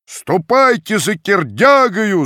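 slow, high, loud command; crowd shout. A narrator's reading. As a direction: call the men to fetch him. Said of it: "закричали".

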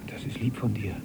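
soft voiceless whisper; hushed gentle thanks. Acted. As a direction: whisper it tenderly. Gentle reply.

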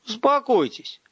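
firm holler, climbing in pitch; shouting back. A narrator's reading. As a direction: call out so both can hear. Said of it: "заорал я в ответ".

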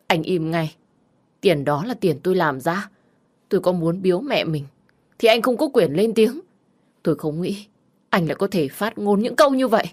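defiant wife, rising to a high shout; firm defiance. Acted. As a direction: stand your ground and push back. Wife finally stands up to husband.

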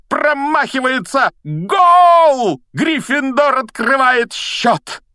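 huge high triumphant yell; goal shout. Acted. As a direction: roar the goal with joy. Commentator calls the goal.

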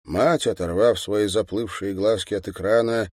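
ordinary delivery

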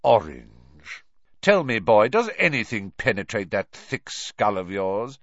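loud scathing teacher; scolding. Acted. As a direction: berate him, cutting and loud. Teacher berating a pupil.

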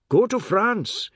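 high, slow, loud retort; maddened, drawn-out outburst; angry cry. A narrator's reading. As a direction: cry it out, drawing out each word. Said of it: "he cried".

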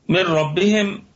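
من ربهم as مِرَّبِّهِم, full idgham; tajweed recitation. Shown as a demonstration. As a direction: recite من ربهم with the nun merged into the ra, no nasal hum. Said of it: "تدغم مع حرف الراء بغير غنة". (تلاوة من ربهم بإدغام كامل بغير غنة)

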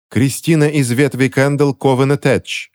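high, ringing proclamation; booming proclamation. A narrator's reading. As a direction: proclaim it to the whole coven. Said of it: "громогласно провозгласила Скарлетт".

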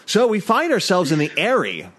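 theatrical improv narration; scene-setting narrator. Acted. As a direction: set the scene like a storyteller.

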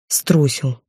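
a curt, hard-edged admission; hard reply. Acted. Artur answers the heroine harshly, a hard curt tone. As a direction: spit out the one word without softening it. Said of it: "жёстко ответил Артур".

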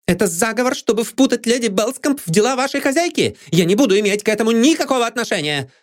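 high, fast indignant outburst; outraged. A narrator's reading. Maid Anne refuses, outraged, getting up. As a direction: storm out of it.

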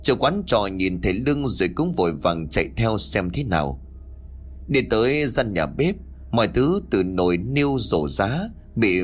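measured storyteller's read with lilting phrase ends; story narration. A narrator's reading. Telling listeners of a possessed daughter, story narration. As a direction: narrate a ghost tale, voicing dialogue lightly.

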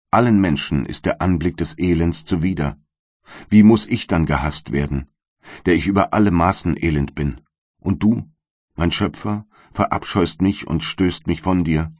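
a light voicing of the wretched creature; bitter creature. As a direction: plead and accuse at once, in the creature's role. Monster speaks to creator.

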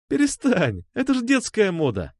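put-on high girlish protest, lightly amused. A narrator's reading. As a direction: brush off the worry as if laughing. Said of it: "захохотала она". (весело отмахиваясь)

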